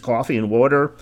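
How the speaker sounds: slipped into New Jersey accent. Real, not acted. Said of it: "Did my New Jersey accent just leak out there?".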